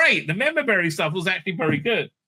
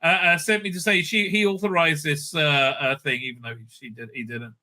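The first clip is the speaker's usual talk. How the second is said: higher, prim fussy droid voice, lightly done; C-3PO impression; 3 semitones higher than usual. Reviewer parodies the droid reporting to the senator, prim and higher. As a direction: chirp it out like a nervous butler droid. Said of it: "And he's like".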